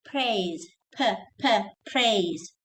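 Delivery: "praise" built from a popped P; clear P. Shown as a demonstration. Teacher drilling the P for students, clear "p, p, praise". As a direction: isolate the puffed "p, p", then "praise". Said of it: "Don't say braise".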